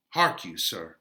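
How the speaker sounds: lightly voiced old nurse calling. Teacher voicing the nurse stopping Romeo, lightly. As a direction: call him back as the nurse.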